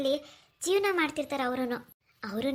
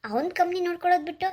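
higher, exasperated protest; indignant complaint; 4 semitones higher, 3 dB louder than usual. Acted. Woman complaining to uncle about his son's job, indignant. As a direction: scoff at the absent son's choices. Complaining that son ignores family company.

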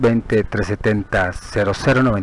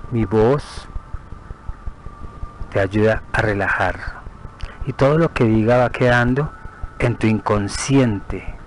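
measured meditation voice with long pauses; guided meditation; 4 dB quieter than usual. Acted. Guía una meditación de relajación. (meditación guiada, pausada y tranquila)

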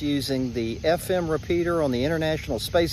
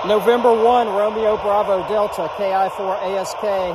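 loud, crisp radio call; over a radio; 3 semitones higher, 5 dB louder than usual. Real, not acted. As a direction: call the station into the mic. Calling a station over radio.

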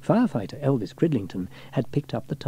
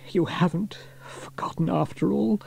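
happily; 7 semitones higher than usual. A narrator's reading. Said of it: "he said happily".

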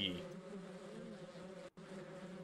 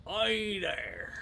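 botched hillbilly drawl, higher pitch; attempted hillbilly accent; 5 semitones higher than usual. Shown as a demonstration. Player testing an accent on friends, shaky hillbilly accent. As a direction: try a hillbilly accent and miss. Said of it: "trying to do my hillbilly accent".

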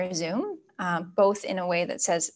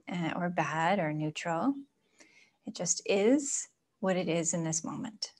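soft, unhurried meditation guidance; guided meditation; 4 dB quieter than usual. Acted. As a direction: ease them gently inward, leaving room for breath. Leads a breathing meditation.

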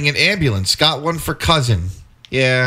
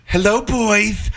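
seductive voice; 6 semitones higher, slower than usual. Pretend. Playing seductive doctor.

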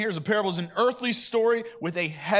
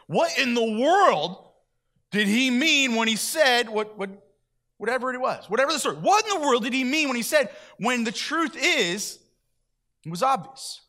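baffled disciples; 6 semitones higher, 4 dB louder than usual. Acted. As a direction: voice the listeners who just don't get it. Voicing baffled disciples' question.

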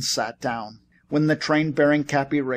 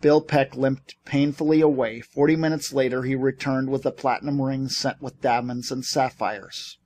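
ordinary delivery

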